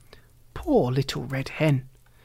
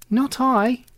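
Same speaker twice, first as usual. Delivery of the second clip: rat voice; 8 semitones higher than usual. A narrator's reading. Rat refuses in story.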